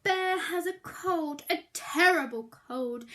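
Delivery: clear, lively picture-book reading; reading to children. A narrator's reading. Teacher reading to reception class, storytime voice. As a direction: read the blurb out to little listeners.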